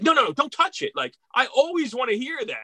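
no no no, don't you dare touch it; urgent protest. Retold or imitated. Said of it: "And I was like".

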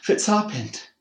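high, loud, frightened ask; panicked question. A narrator's reading. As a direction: cry it out in panic. Mother sees her injured baby.

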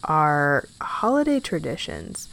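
slow announcing voice to the audience; host voice. Acted. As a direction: welcome the listeners like a host. Turning to address the audience.

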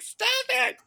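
very high shrieked stop; mock Paige yell. Paige running in to stop Leo, high mock shriek. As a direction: squeal it like a panicked Paige. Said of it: "was like".

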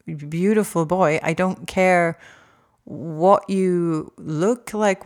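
아들에게 진심으로 다정하게, 조금 느리게; 아들을 다독이듯 따뜻하고 진지하게; loving reassurance. Retold or imitated. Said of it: "and I've always said to him".

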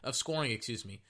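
high mock pleading, stop us; high mock please; taunting offense. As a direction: taunt the defense in a high begging voice. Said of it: "they just keep saying".

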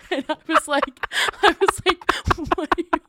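can barely get the words out; helpless laughter mid-story; laughing hard. Real, not acted. Laughing hard recalling outfit scolding.

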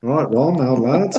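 put-on playful Shropshire local's accent. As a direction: greet a mate in broad Shropshire. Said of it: "I'll have the Shropshire accent".

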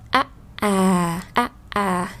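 "a, à" as isolated vowels, short then drawn out; âm co duỗi. Shown as a demonstration. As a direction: alternate a short "a" and a long "à". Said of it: "Nhưng mà chúng ta không có". (đọc mẫu "a, à" ngắn rồi dài)

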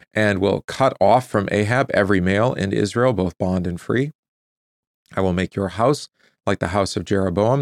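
measured, deliberate Bible reading; scripture reading. Real, not acted. Preacher reading scripture to listeners, measured public reading. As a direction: read the passage out solemnly and clearly. Reads the scripture passage aloud.

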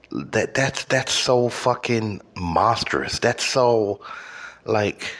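high-pitched baffled disbelief, voice climbing; incredulous rant. Real, not acted. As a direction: sound genuinely baffled and outraged. Incredulous rant about hot honey.

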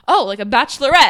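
sudden realization. Retold or imitated. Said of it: "my gears are turning".

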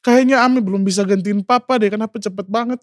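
high-pitched, mildly plaintive quote; retold lament. Grieving over papa gone so soon, understated high lament. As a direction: retell a pained protest at the loss. Retold grief at father's death.

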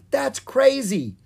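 high, drawn-out disbelieving cry; loud protest. A narrator's reading. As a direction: exclaim it in alarm. Protesting during the chase.

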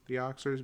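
"Oscars" said as "Oxers"; deliberate mispronunciation. Real, not acted. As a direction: slip a k sound into "Oscars", as "Oxers". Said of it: "I'll pronounce them correctly".

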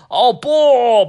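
high, loud panicked cry; shout of alarm. Acted. Dad seeing Adam sucked away, panicked shout. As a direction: yell out in sudden fright. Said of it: "爸爸大叫起来".

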